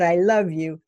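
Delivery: a plain, heartfelt I love you, meant fully; sincere I love you. Retold or imitated. Wife answering her partner's I love you, sincere and simple. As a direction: give it back the way he gave it, simple and true. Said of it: "I said it the way he said it to me".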